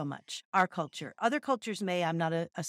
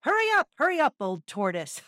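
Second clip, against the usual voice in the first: laughing; 6 semitones higher, 4 dB louder than usual. Acted. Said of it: "laughed the hare".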